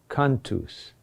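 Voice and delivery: cantus with the accent on can, tus falling away; stress on first syllable. Shown as a demonstration. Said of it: "the accent on the next to last syllable".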